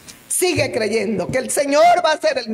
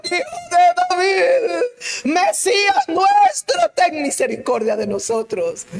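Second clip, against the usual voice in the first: tearful plea; 4 semitones higher than usual. Acted. Blind men plead with Jesus.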